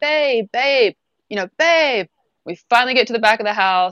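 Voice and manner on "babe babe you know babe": drawn-out, high-pitched yell. Recalling calling through the house for him: retelling a yell. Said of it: "And I'm just yelling".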